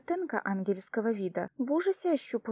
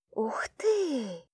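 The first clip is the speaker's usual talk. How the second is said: squealed; 2 semitones higher than usual. A narrator's reading. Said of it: "взвизгнул".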